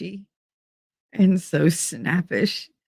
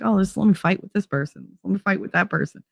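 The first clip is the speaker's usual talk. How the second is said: softer, eager inner voice; mock itching for a fight; 4 semitones higher, 5 dB quieter, faster than usual. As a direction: tempt yourself into a fight. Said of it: "I'm just like".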